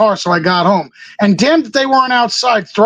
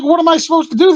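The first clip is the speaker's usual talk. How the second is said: higher-pitched baffled question; retold disbelief; 7 semitones higher, faster than usual. Wrestler to security about waiting fans, retold disbelief. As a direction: replay your own bewildered protest. Retells his disbelief at threat.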